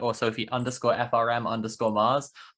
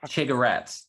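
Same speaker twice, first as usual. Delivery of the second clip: laughing. Real, not acted. Joking about rolling a cigarette.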